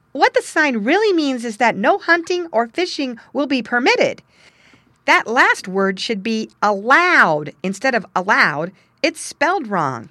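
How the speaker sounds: high, loud know-it-all fox; clever fox voice. Acted. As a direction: set him straight, brightly and loudly. Tommy Fox explains the sign.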